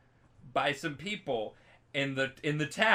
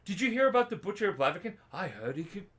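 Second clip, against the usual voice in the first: higher, put-on rumour-monger; gossiping townsfolk; 8 semitones higher than usual. Villagers gossiping about the butcher, put-on voice. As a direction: pass on a scary rumour, pitched up.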